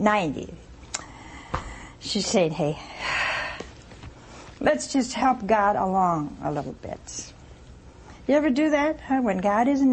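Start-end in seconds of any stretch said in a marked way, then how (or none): 2.5-7.3 conspiratorial whisper. Retold or imitated. Sarah scheming, whispered.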